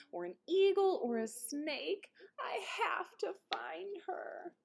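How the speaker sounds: high, anxious fretting, dropping to a hushed whisper; worried. A narrator's reading. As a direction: list the dangers with growing fear. Ralph frets about dangers.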